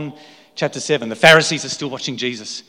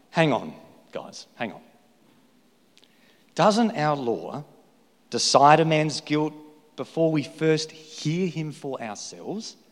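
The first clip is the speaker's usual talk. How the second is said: calm, reasoning Nicodemus; 3 dB quieter than usual. Acted. Nicodemus cautions the council.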